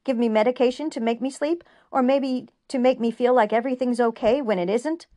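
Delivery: very high, loud angry yell fading to bitter; furious shout. A narrator's reading. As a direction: lash out at her, then grind on bitterly. Julian turns on her angrily.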